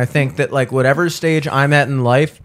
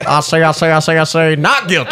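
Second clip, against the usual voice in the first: Foghorn Leghorn voice. Acted. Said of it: "foghorn leghorn".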